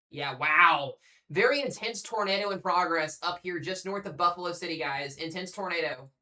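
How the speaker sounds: loud burst of real alarm at the radar; excited alarm. Real, not acted. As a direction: sound the alarm, it's a big one. Tornado suddenly spotted on radar.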